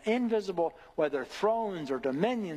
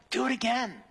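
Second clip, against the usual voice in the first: God speaking to the sun; 7 semitones higher than usual. Retold or imitated. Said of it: "God says every morning".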